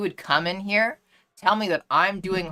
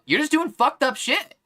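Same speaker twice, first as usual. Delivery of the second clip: higher, emphatic mock scolding; mock concerned accuser; 6 semitones higher, 4 dB louder than usual. Streamer acting out a stranger accusing someone in public, mock concerned. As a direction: overplay the self-righteous concern. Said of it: "And I go".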